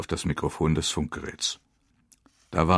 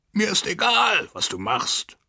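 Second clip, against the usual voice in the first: high frantic yell; crazed shout; slower than usual. A narrator's reading. Lieutenant threatened with court-martial defies his commander, crazed shout. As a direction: scream at him like a madman. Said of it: "Er schrie mich an wie ein Verrückter".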